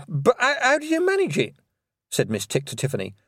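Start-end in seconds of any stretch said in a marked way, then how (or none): 0.1-1.6 high, baffled teacher witch; astonished witch. Acted. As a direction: ask it in disbelief. Miss Tick voice.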